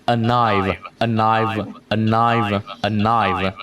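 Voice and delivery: "a knife" run together, the N carried into the vowel; linked N. Shown as a demonstration. Teacher showing linking, "a knife" joined as one unit. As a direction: link it smoothly as "a-knife", ending on the consonant. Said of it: "mình nói N qua".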